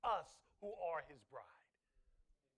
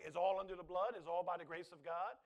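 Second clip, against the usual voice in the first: mocking excuse; 2 semitones lower, 6 dB louder than usual. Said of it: "so that you can say".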